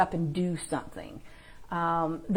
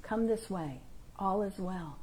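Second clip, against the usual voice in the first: gentle guidance voice; 10 dB quieter than usual. Acted. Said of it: "guidance is just".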